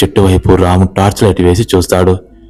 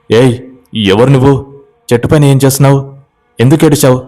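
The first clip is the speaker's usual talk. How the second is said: higher, fast calling up a tree; 5 semitones higher, faster than usual. Acted. Ramu calling up to the girl in the tree, high and urgent. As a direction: demand an answer from below, pitched high.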